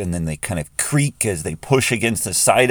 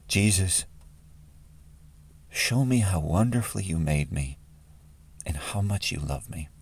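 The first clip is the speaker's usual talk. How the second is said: soft, unhurried prayer; quiet prayer; 6 dB quieter than usual. Real, not acted. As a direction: pray it gently, leaving pauses.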